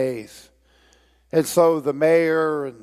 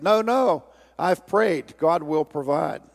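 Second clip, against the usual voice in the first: put-on stubborn old man; 2 semitones higher than usual. Story, old man refuses firemen.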